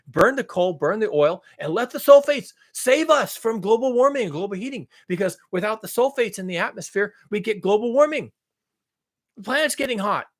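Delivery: high-pitched mock scolding; sarcastic outrage. Mocking Paul's demand to put sulfates back, sarcastic outrage. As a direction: berate them in exaggerated, sarcastic indignation. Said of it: "I'm being fucking sarcastic".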